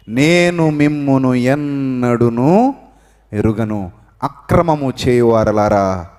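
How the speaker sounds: God turning away the wrongdoers, slow and grave; stern voice of God. Acted. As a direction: pronounce judgement word by word. God's rejecting words voiced.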